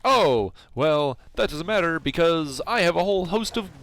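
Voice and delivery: high-pitched mock villain bluster. Villain threatening the player after his plan fails, blustering. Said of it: "and he's like".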